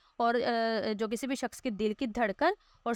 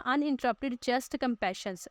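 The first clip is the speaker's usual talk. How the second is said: teacher reading the heading slowly; slow reading aloud; much slower than usual. Shown as a demonstration. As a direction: read "uninterrupted chest compressions" slowly off the board. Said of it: "یہ لکھا ہوا ہے نا".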